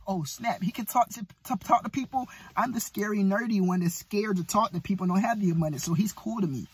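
soft, awed mimic of a nerdy onlooker; quietly imitating a starstruck bystander; mock admiring onlooker. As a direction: hush it like an impressed nerd.

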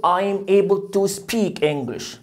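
very slow, even I'm able to speak; teacher dictating slowly; slow model sentence. Shown as a demonstration. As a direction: read it slowly for repetition. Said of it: "قول".

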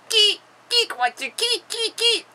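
very high, staccato squeaks; insistent questioning. Acted. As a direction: fire off high, repeated questions. Pressing caller with repeated question. (questions suraiguës et insistantes)

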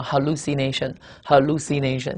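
teacher demonstrating how "hallucination" is pronounced; careful pronunciation demo. Shown as a demonstration. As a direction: say "hallucination" carefully for learners, twice. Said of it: "注意这个词的读音".

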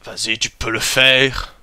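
a hint of a German coach cheering; mock German accent, egging himself on. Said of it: "Pourquoi je prends un accent allemand?".

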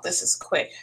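hushed aside to the viewers; whispered repeat. Shown as a demonstration. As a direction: drop to a whisper on This is quick.

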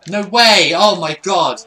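loud, disbelieving protest; shocked outcry. Real, not acted. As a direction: cry out in disbelief at the goal. Goal conceded in the game.

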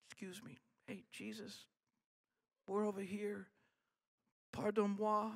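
tiny hushed voice, barely there; mock-polite. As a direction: timidly try to get attention, nearly whispering. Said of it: "It wasn't polite".

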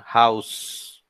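house with the H sounded like a Spanish J. Shown as a demonstration. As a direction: sound the opening H of house clearly. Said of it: "suena como una J".

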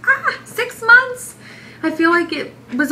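drawn-out thrilled exclaim; excited. Real, not acted. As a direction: gush it out slowly, amazed. Marvelling at being six months.

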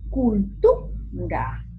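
"cultura" as culTU, pause, ra; stress on TU. Shown as a demonstration. Teacher explaining the tonic, stressed TU in split "cultura". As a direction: punch TU in "cultura" and halt before ra. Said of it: "en este caso es la tu".

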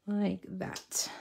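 breathy whispered aside. Real, not acted. Crafter whispering to herself as she places paper. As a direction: whisper it to yourself while working.

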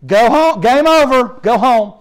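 hammed-up outraged echo; mocking the call. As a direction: throw their words back, indignant. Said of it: "mocking the officials' call".

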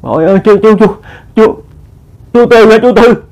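high, stammered questioning; startled recognition. A narrator's reading. Old woman realising it is the neighbour, startled recognition. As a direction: stumble on the word, pitched well up.

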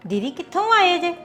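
mocking quote. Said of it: "ਹੁਣ ਤੈਨੂੰ ਦੀਦੀ ਦਾ ਚੇਤਾ ਆ ਗਿਆ".

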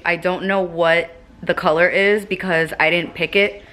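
slight lisp on s sounds. Real, not acted. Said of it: "Sorry for my lisp as usual".

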